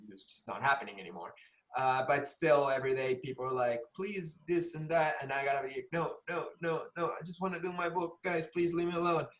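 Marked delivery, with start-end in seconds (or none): 4.0-5.2 imitated begging. Mimics people asking for favours. 5.9-9.3 mock pleading refusal. Acts out refusing the requests.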